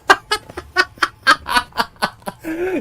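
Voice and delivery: high, loud real laugh; burst of laughter. Real, not acted. Streamer laughs at the chat's teasing, high and loud. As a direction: crack up at the joke.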